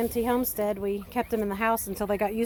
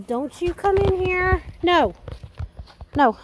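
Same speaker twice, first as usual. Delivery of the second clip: sharp, raised warning to an animal; firm scolding; 7 semitones higher, 4 dB louder than usual. Real, not acted. Owner warning an animal at the gate, sharp raised scold. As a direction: stop it from coming in, firmly.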